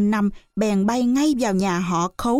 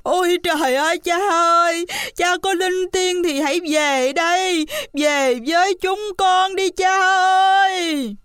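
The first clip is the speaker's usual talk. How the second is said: wailing sons; 9 semitones higher than usual. Acted. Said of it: "nước mắt ròng ròng cất tiếng khóc".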